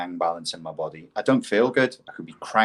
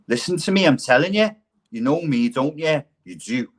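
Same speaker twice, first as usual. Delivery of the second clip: lightly mocked wannabe gangster; higher-pitched, insistent Scouse wheedle; pretend gangster; 5 semitones higher than usual. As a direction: press like a gangster at the club door. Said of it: "I used to have gangsters saying that to me".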